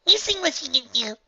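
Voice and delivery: talking through cereal; words round a mouthful; mouth full. Acted. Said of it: "through a mouthful of cereal".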